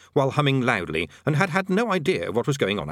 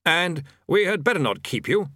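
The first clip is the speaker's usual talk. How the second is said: polite; 6 semitones higher than usual. A narrator's reading. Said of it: "the bursar added politely".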